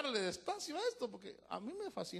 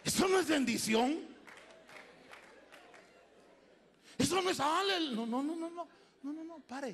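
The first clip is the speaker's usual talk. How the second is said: stern stopping; 8 semitones higher, 6 dB louder than usual. Real, not acted. Preacher stops a fake manifestation.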